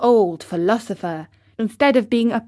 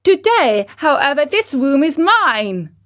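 put-on high, loud cheeky boy; bossy puppet boy; 6 semitones higher, 8 dB louder than usual. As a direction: stake your claim like a brat. Pinocchio rude claim.

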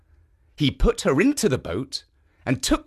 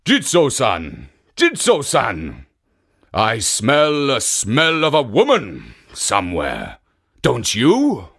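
put-on drunken ogre bellow; 4 dB louder than usual. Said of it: "cried out".

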